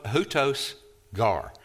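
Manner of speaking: "hutos gar" said slowly, HOO-tos gar; Greek pronunciation. Shown as a demonstration. Reading the Greek to the class, slowly. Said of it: "in the Greek".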